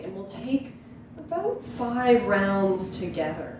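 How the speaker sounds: calm meditation teacher with long, unhurried pauses; guided meditation. Real, not acted. Yoga teacher inviting viewers to breathe into the belly, calm guiding voice. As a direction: gently guide listeners into stillness and breath.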